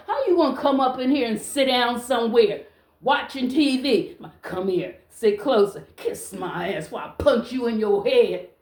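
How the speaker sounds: heated, punchy scolding; a little aggressive. Real, not acted. Woman scolding a man lounging at her TV, a little aggressive. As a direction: tell off a freeloader with some bite. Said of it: "I got a little aggressive".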